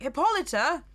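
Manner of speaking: hint of a spooky ghost; lightly voiced eerie spectre; skeleton voice. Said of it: "the figure's like".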